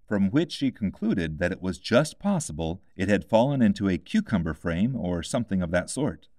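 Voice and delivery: ordinary delivery, nothing marked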